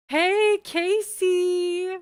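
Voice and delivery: high, loud bubbly greeting; YouTuber voice. Shown as a demonstration. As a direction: call out like a vlog intro. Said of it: "that voice".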